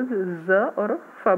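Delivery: ज as z and फ as f, slowly. Shown as a demonstration. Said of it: "बना देता है".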